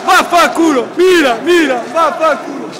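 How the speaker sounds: shouted furious swearing; explosive italian cursing. Real, not acted. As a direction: yell it at the rival fans. Fan swearing at rival team. (imprecazioni urlate)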